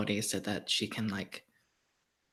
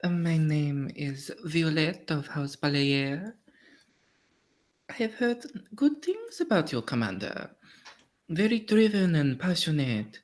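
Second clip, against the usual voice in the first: higher, refined society lady; gracious, measured self-introduction; courtly lady Violette; 5 semitones higher than usual. Acted. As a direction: play a noblewoman paying a coy compliment.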